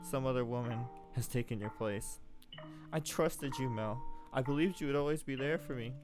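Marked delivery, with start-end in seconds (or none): 2.9-5.9 put-on a girl betrayed, crying out at a portrait; anguished outburst. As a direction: rail at the lying painting, heartbroken. Nellie breaks down at the painting.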